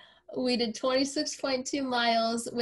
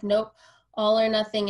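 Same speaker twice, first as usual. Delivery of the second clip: mock-firm, louder declaration; retelling the client's stubborn reply, a touch louder; firm insistence; 6 dB louder than usual. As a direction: insist flatly, no room for argument. Client insists on running with her.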